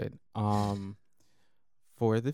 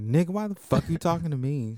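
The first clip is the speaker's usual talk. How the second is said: louder, higher exasperated imitation; mock annoyed; 7 semitones higher, 6 dB louder than usual. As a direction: play the irritated worker, hammed up. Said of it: "She was annoyed".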